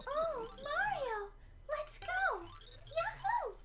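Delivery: very high, slow, sweet princess squeal; sing-song high princess cheer; Princess Peach voice. Pretend. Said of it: "my Princess Peach voice is, uh, it's gonna be kinda bad".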